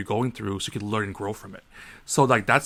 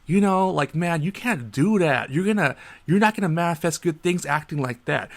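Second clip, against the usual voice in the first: mocking the cashier; 4 semitones higher than usual. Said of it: "He's like".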